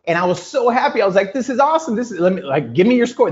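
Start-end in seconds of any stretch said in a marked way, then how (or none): 1.3-3.3 excited. Retold or imitated. Excited reaction to low score.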